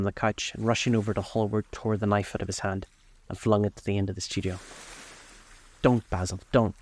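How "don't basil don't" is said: restrained cry of protest; a touch of desperate urgency; cried out. Acted. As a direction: plead urgently without shouting. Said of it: "he cried".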